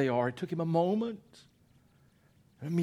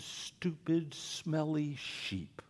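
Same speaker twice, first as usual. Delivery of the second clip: disdainful; 7 dB quieter, much slower than usual. Acted. Mocking the sheep.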